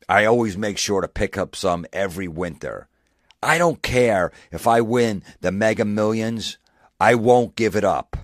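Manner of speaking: host reading the soup post aloud in a hammed-up voice; mock earnest reading. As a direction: ham up the guy's soup devotion, building to a shout. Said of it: "A thirty-four-year-old guy posted this".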